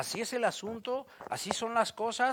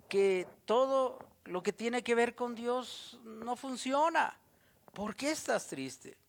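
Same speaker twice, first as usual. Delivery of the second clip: tender questioning; 4 semitones higher, 3 dB quieter than usual. Acted. God asking you tenderly.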